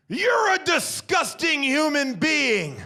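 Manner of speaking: high shouted insult, slow; yelled insult. Retold or imitated. Dog owner yells at the husband from down the street, slow and high. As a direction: yell it after him down the street.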